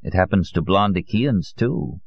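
mild, gentle reassurance; consoling. Acted. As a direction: comfort her, easing off at the end. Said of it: "Allier consoled her".

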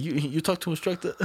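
mock Vietnamese accent with a stumbling start. Man directing a customer to the instructor, imitated Vietnamese accent. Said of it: "They had that accent just like that?".

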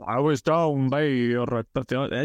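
slow, deep west of Ireland farmer; original Farmer Michael voice. Shown as a demonstration. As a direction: drag it out low like the early farmer. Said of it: "it was very deep at the beginning and slow".

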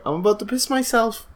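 high-pitched comic strain; retold near-hysterics. Player telling his buddy he can't cope, high mock strain. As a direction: push it up high, as if barely holding on.

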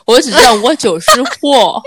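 slow, laughing through it. Retold or imitated. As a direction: giggle the words out. Quotes a meme line.

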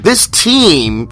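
"team" picked out with clear emphasis; stress on team. Shown as a demonstration. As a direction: lean on the word "team". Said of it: "you emphasize the word team".

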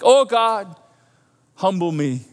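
mock God talk, big "Oh, God" then settling down; showy prayer. Someone praying to impress the pastor, showy imitation. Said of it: "pray like this".

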